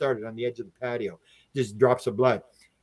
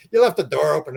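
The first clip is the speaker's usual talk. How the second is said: louder retold accusation; telling someone off; 2 semitones higher, 6 dB louder than usual. Friend blamed for the open door, louder mock accusation. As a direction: say it out loud, pointedly. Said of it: "You're like".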